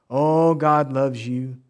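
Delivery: slow, stretched mock reassurance; syrupy mimicry. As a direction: draw it out like a feel-good preacher. Mimics preaching only love.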